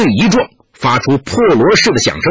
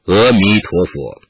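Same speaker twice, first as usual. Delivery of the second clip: calm prayer; 8 semitones lower, slower than usual. A narrator's reading. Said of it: "垂手说道".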